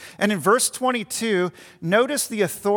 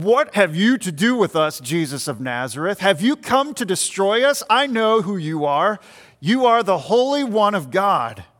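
mock outcry of a possessed man, somewhat louder; a touch of a demon's challenge, pushed louder; crying out; 4 dB louder than usual. Possessed man crying out at the teacher, mildly loud. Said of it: "he cried out to the teacher".

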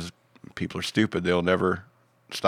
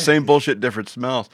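laughing; 4 semitones higher, 4 dB louder than usual. Real, not acted. Repeated with laugh.

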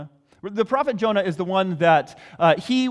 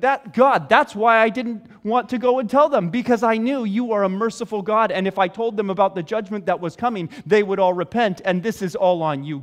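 higher, louder complaining outburst; upset Jonah; 4 semitones higher, 5 dB louder than usual. Retold or imitated. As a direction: vent at God, indignant. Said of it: "Jonah was upset".

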